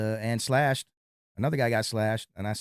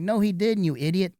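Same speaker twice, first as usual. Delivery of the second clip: higher, louder mock indignation; retold exasperated retort; 8 semitones higher, 5 dB louder than usual. Bouncer imitating the girlfriend correcting her boyfriend, mildly exasperated. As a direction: imitate someone scolding a fool.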